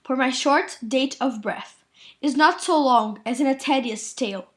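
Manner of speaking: student reciting a Shakespeare monologue, projected; dramatic recitation. Acted. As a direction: recite the verse firmly, phrase by phrase. Recites Friar Lawrence's monologue.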